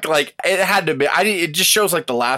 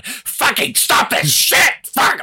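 mock yell; 9 semitones higher, 3 dB louder, much slower than usual. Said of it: "He didn't go out in the arena going".

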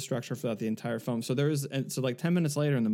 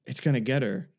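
gasping moviegoer; 3 dB louder than usual. Retold or imitated. Imitating the woman watching the heroine hide, mock alarmed. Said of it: "so this woman says".

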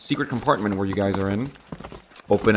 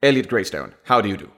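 formal introduction in put-on Received Pronunciation; high-class British accent. British official introducing himself with a bow, high-class British accent. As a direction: start high on the title, upper-class British. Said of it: "he gives a curt bow and says".

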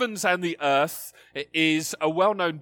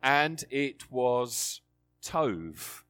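reverent; slower than usual. Acted. Climactic retelling of Genesis.

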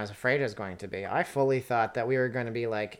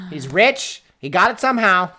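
sarcastic, loud, higher mock praise; mock admiring; 5 semitones higher, 8 dB louder than usual. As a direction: play a gullible fan of the rich. Mocking rich-man logic.

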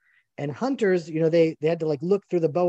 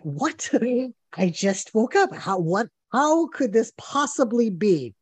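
mock bewilderment; 4 semitones higher, slower than usual. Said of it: "And I'm like".

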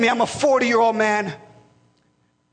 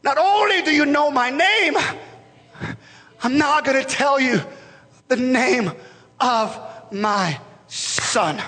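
voice of God. Acted. God speaking to the pastor by name, solemn. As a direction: call him by name, then reveal gently. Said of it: "God ... to say".

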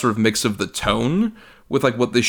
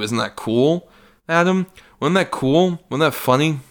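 mock needy guy; 4 semitones higher than usual. Mocking McAvoy asking for approval.

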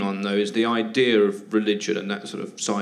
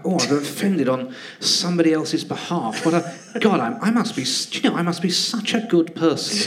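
higher, a touch of a hammed-up preening voice through laughs; lightly mocking people offended on others' behalf, smug and self-satisfied; mock smug self-congratulation; 5 semitones higher than usual. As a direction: lightly send up a smug do-gooder pleased with himself.

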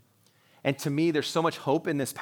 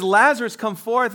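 much higher and louder call; 9 semitones higher, 10 dB louder than usual. Retold or imitated. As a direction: shout the name into the tomb. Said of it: "He says".

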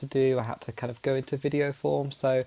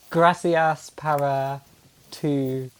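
Spanish accent; much slower than usual. Shown as a demonstration. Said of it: "that's a cracking Spanish accent as well".

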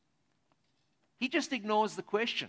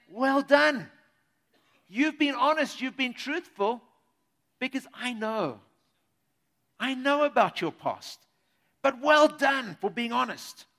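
warm praise; 3 semitones higher, 4 dB louder than usual. Acted. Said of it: "He's saying".

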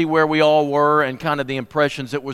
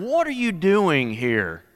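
wary inner question; 2 semitones higher, 3 dB quieter, slower than usual. Retold or imitated. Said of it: "But you're wondering".

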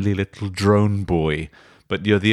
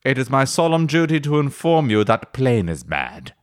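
mock solemn; 6 semitones higher than usual. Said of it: "Or C".

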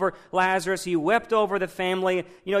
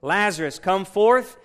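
commanding call; 2 semitones higher, 6 dB louder than usual. Acted. Jesus calls Lazarus from tomb.

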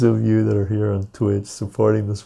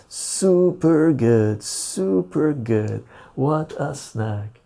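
savoring; 5 semitones higher, much slower than usual. Real, not acted. Savoring a snack on stream.

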